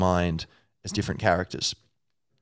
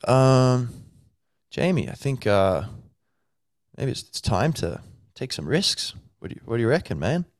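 humble ripped dude; 5 semitones higher than usual. Retold or imitated. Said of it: "Tim Kennedy-esque character".

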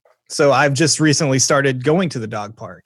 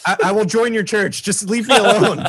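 higher, laughing exasperated give-up; mock surrender; 6 semitones higher than usual. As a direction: beg to be left alone. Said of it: "you're like".

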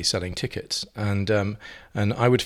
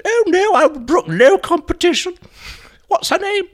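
put-on very high, loud tipsy old lady voice; Jenny Fulborough voice; 8 dB louder than usual. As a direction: trill like a dotty dame after a few sherries. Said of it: "She said".

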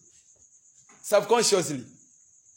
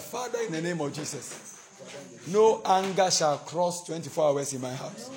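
prayer declaration. Shown as a demonstration. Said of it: "lift up your voice and declare".

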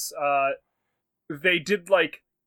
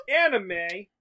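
gasping, pitched way up; mock surprised gasp; 7 semitones higher than usual. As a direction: act shocked at the word. Mock gasp at topic anime.

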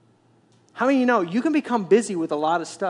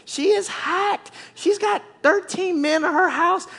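fired-up preaching; 10 semitones higher, much slower than usual. Real, not acted. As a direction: hammer home how mad she was. Preacher insists she was furious.

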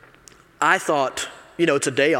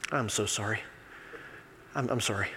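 put-on soft, lower apology of the older gentleman; a hint of a humbled old man saying sorry; meek apology; 6 semitones lower, 12 dB quieter than usual. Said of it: "He looked at me and he goes".

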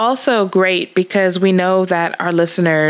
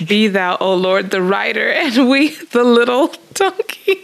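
laughing while reading; 4 semitones higher than usual. Real, not acted. Rereads verse while laughing.

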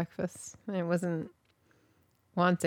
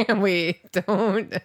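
laughing, louder, pleading wait; laughing protest; 4 semitones higher, 6 dB louder than usual. Real, not acted. Laughing at her spouse, begging him not to tell her story. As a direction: laugh through a mock protest.

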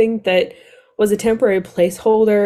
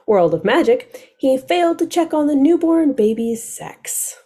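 summary read-aloud. Acted. Co-host reads the book's summary to listeners, measured read-aloud. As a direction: read it out like a back-cover synopsis.

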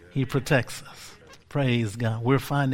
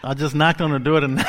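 laughing; 2 semitones higher, 5 dB louder, faster than usual. Real, not acted. Laughs at his own line.

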